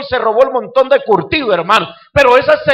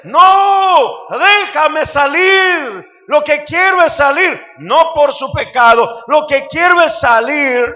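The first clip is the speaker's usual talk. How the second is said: raised pleading voice of the Lord; God pleading; 5 semitones higher, slower than usual. Acted. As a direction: cry out as the Lord wanting out.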